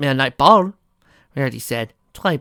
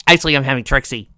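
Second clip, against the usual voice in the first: fast take; 4 dB louder, faster than usual. Shown as a demonstration.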